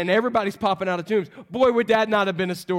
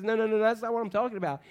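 brisk, dismissive string of no's; rapid mild objection, acted out; quick correction; 2 semitones higher, faster than usual. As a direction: hurry to correct a misunderstanding. Jesus correcting Martha, acted.

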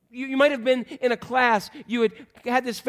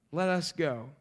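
softer, understated sarcasm; sarcastic; 3 semitones lower, 6 dB quieter, slower than usual. Acted. Thomas to the disciples, quietly sarcastic. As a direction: say it quietly and dryly. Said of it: "he's sarcastic Doubting Thomas".

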